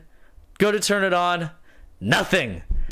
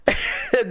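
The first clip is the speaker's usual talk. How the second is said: high laugh. Real, not acted. Laughs after shouted demand.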